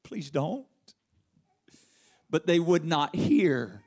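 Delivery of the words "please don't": soft remembered plea. Retold or imitated. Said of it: "pleading anguish of his soul crying out".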